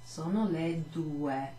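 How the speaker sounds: slow clear "sono le due"; slow Italian teacher model; slow model phrase. Shown as a demonstration. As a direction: say "sono le due" slowly for the class.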